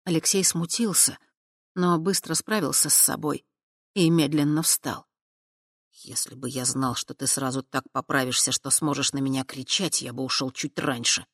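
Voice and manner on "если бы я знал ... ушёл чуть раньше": said through teeth. Acted. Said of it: "процедил на одном дыхании".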